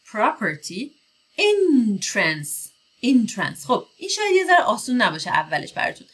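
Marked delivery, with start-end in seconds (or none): 0.1-0.8 "property" at normal speed with a short schwa; teacher models "property". Shown as a demonstration. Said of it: "یه صدای خیلی کوتاه به اسم شوا". 1.4-3.7 "entrance" with a short schwa in the second syllable; teacher repeats "entrance". Shown as a demonstration.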